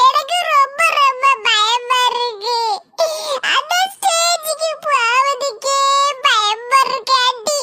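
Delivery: slow, high wailing cry, words drawn out; tearful child. Acted. Scared child crying to aunty before going on stage, wailing. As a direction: sob out each word like a frightened little child. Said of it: "நீ இப்படி அழுதுட்டு இருந்தா".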